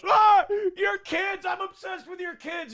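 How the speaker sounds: high, slow, shouted creepy gush; mock Patrick Melton. Mocking a feud rival's taunt, high slow shouted gush. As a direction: overdo it like a creep obsessed. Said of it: "It's like he goes".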